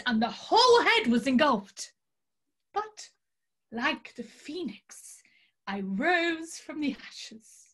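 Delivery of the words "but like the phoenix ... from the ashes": whispered dramatic aside; hushed. Acted. Tarot reader telling of her burned hair in a whisper. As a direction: breathe it like a secret.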